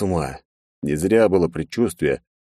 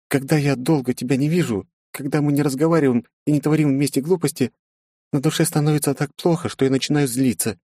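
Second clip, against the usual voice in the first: put-on apologetic young princess; 9 semitones higher than usual. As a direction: ask forgiveness gently.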